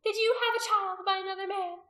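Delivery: high, loud demand; accusing, high-pitched challenge; fierce interrogation. A narrator's reading. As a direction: shout questions at a captive. Priestess interrogating a captive.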